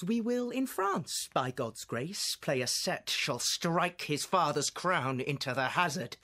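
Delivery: regal and mocking, rising to defiance; a young king answering an insult with controlled fury; King Henry. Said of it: "This is King Henry".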